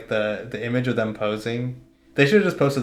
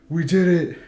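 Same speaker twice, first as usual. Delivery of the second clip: raised cry building to a long, high scream; imitated victory scream; 6 dB louder, much slower than usual. Host imitating the player screaming after the game, imitated victory scream. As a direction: mimic him screaming, stretching the repeat out high and loud. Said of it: "He starts screaming".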